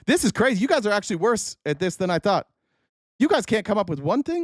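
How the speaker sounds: high, baffled complaint; exasperated disbelief. Real, not acted. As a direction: scold the audience in disbelief. Exasperated at listeners' weak answers.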